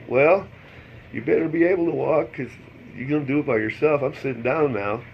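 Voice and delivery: firm and teasing, a bit fast; stern. Retold or imitated. Husband scolds wife firmly.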